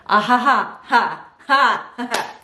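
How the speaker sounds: forced nervous ha ha ha; a stiff, put-on chuckle; awkward fake laugh. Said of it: "And I was like".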